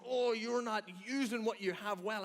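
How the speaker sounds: mildly exasperated reproach; acted frustration. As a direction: grumble in pretend frustration. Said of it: "we get so frustrated by it".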